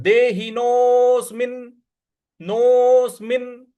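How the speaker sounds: देहिनोऽस्मिन् with a firm hit on the final न्; stress final n. Shown as a demonstration. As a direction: press hard on the half न् of देहिनोऽस्मिन्. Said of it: "इस पर हमको आघात देना है".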